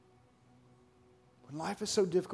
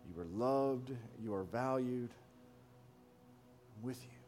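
gentle whisper of God; 4 dB quieter than usual. Acted. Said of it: "It's a whisper where he says".

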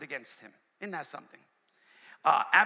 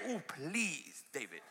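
pleading Abishai; slower than usual. Retold or imitated. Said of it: "Oh, he's saying".

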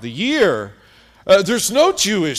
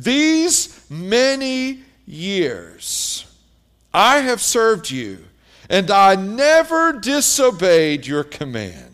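starts much higher and very slow on These many years; resentful complaint; 3 semitones higher, slower than usual. Retold or imitated. Older son complaining to his father, drawn out and aggrieved. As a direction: stretch the grievance out, then press on. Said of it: "he says".

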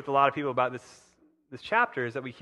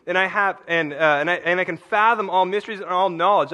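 higher and louder, driving the verse; fiery paraphrase; 3 semitones higher, 5 dB louder than usual. Shown as a demonstration. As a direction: preach the verse with fire. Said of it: "this is what that voice says in my head".

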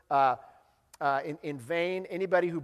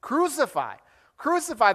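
higher and louder, the crowd's demand; fervent shout; 6 semitones higher, 4 dB louder than usual. Shown as a demonstration. Preacher voicing the crowd shouting at Pilate. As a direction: cry it out like a baying mob. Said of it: "It is a crowd that is fervently shouting".

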